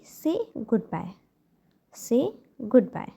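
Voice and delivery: very slow, word by word; slow model phrase. Shown as a demonstration. Teacher to parents, modelling a phrase very slowly. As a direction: stretch each word out for the learner. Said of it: "आपको बोलना है कि".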